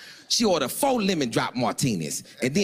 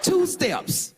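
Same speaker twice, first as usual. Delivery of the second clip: sudden high yelp; high shout. Retold or imitated. Narrator yelps at date's few steps, high shout. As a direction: yell it up high in disbelief. Mocking her small progress.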